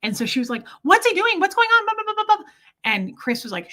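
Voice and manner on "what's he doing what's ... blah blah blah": high, loud frantic questions; panicky sister. Retold or imitated. Sister frantic on the phone, high and loud. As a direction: rattle off her panicked questions. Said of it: "She's more like".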